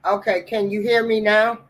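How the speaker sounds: distant, off-mic voice; barely audible. Real, not acted. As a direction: sounds far from the mic. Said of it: "You sound like you're really far away".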